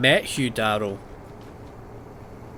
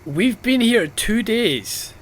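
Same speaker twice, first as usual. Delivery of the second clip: incredulous, higher-pitched complaint; really exasperated, voice raised in pitch; exasperated rant; 5 semitones higher, slower than usual. Real, not acted. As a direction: vent in disbelief at how absurd this is. Exasperated rant at the game's plot.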